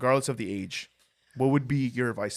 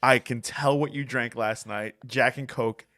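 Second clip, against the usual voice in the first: louder, slower retelling of the manager's scolding; mock angry manager; 5 dB louder, slower than usual. Manager scolding a drunk employee at the door, loud mock anger. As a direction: throw him out like the fed-up boss, hammed up a little. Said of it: "she's like".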